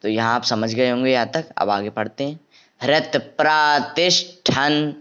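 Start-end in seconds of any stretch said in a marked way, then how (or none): 2.8-4.9 हृत प्रातिष्ठन read with a clear हृ; model reading. Shown as a demonstration. Teacher introducing the tricky word, clear reading. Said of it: "यहाँ क्या बोलना?".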